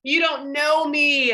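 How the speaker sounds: mock-upset, rising to a loud protest; upset complaint. Speaker imitating past self upset at friends, whiny protest. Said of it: "I'd be so upset".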